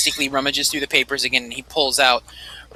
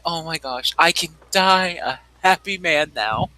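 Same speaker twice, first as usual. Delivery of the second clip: sighing. Acted. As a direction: breathe it out in blissful relief. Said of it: "you can kinda hear him sigh".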